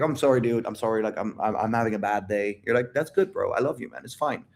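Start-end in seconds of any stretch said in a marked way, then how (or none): 0.0-2.6 sheepish climb-down, trailing lower; backing-off apology. Acted. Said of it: "he backs off". 2.9-4.4 softer, easygoing comfort to a bro; understated, soft-voiced support; reassuring. Acting out a forgiving, supportive reply.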